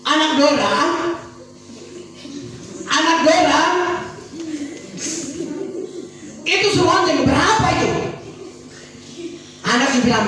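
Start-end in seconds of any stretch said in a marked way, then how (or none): 0.0-7.9 put-on high, raised child's call across the house. Child calling to father about the bell. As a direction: call up to Dad like a small child.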